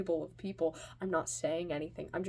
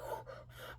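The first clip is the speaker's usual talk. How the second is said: soft, breath-only panting; imitated panting; 11 dB quieter than usual. Kid back from ordering at the bar, acted panting. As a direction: puff as if worn out. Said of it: "I'm, like, panting".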